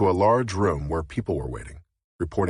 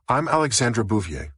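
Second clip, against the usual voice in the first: urgent; 4 semitones higher than usual. Acted. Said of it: "she said urgently".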